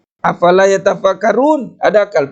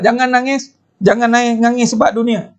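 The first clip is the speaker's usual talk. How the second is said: put-on raised-pitch telling-off of children; mock scolding; 3 semitones higher than usual. Ustaz telling children not to cry over worldly things, mock scolding. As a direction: imitate scolding a crying child, only mildly cross. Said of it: "kita akan marah budak-budak".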